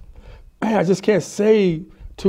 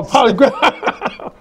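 laughing repeat; 7 semitones higher, much slower than usual. Real, not acted.

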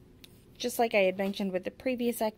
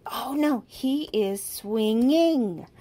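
"swinging" louder and drawn out slowly; stress on swinging; 4 semitones higher, 6 dB louder, much slower than usual. Shown as a demonstration. Teacher stressing the missing ending for a child, emphatic. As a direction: lean hard on the ending of swinging. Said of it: "put emphasis on whatever it is".

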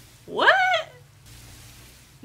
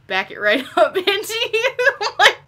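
high, loud laughter breaking through; helpless laughing; 8 semitones higher, 6 dB louder than usual. Real, not acted. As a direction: crack up while talking. Cracking up at game character.

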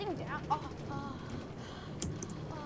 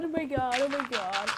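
low, soft disbelief; hushed, lower voice of wonder; awed murmur; 8 semitones lower, 8 dB quieter than usual. Real, not acted. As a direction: let amazement sink down quietly. Awe at the find fading.

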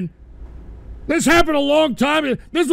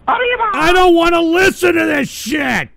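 angry shout; 4 semitones higher, 5 dB louder than usual. Real, not acted. Yelling to refuse the clip.

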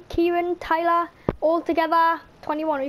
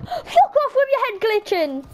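words half-broken by laughter, higher; laughing; 6 semitones higher than usual. Real, not acted. Laughing at Tyler's glitching head, cracking up. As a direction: laugh through the insult.

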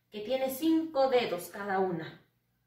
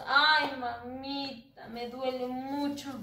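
put-on complaining child; slower than usual. Teacher voicing a child telling mom it hurts. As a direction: lightly act a kid with tummy ache. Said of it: "Después le decimos".

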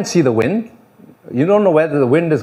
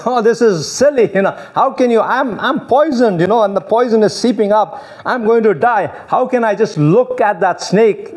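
raised, dismissive sceptic's voice; mock scoffer; 6 semitones higher than usual. Preacher imitating a poisoned scoffer dismissing God's cure, raised and scornful. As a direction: scoff at the cure, then insist on your own way. Scoffer refusing to look at serpent.

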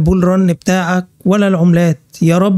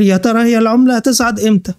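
mock whining; 4 semitones higher than usual. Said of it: "وقاعد تعيط وتقول".

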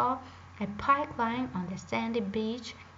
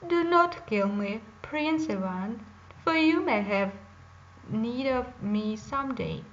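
a lightly voiced bear, louder and pleading; talking bear; 4 dB louder than usual. Bear begs Prince Ivan not to shoot, pleading loudly. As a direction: beg the hunter to spare you, a touch loud. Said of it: "the bear spoke in a human voice".

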